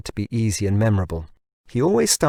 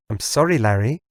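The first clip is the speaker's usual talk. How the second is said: smooth, polished machine voice; mellifluous device voice. Acted. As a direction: purr like a polite assistant. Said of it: "mellifluous tones of the woman".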